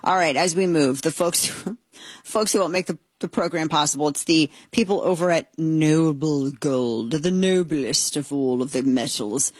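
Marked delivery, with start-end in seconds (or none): 4.1-9.5 ad read. Acted. Sponsor ad read.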